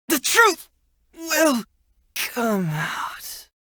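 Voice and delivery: starts high and strong, then fades to almost nothing; a beaten fighter's last words trailing away; fading final words. Acted. Defeated, falling in battle.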